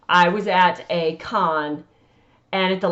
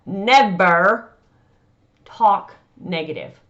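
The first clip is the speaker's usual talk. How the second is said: never said louder for the back; 4 dB louder, slower than usual. Shown as a demonstration. Speaker to authors, repeating never louder. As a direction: push never out to the back row. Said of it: "let me say it louder for those in the back".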